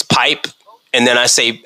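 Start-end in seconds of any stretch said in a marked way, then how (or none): 0.0-0.5 "pipe" ending in a crisp p, lightly rising; "pipe" said as one of two versions. Shown as a demonstration. Host setting up a word quiz, saying the pipe version. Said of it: "I hear it said both ways".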